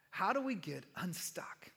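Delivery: whispered, drawn-in question to the church; hushed question. Real, not acted. Pastor whispering a question to the congregation.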